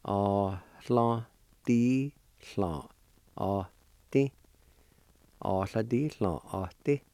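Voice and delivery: á, thlá, tí repeated, syllable by syllable; Cherokee word. Shown as a demonstration. Teacher putting the whole word together for students. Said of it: "And together".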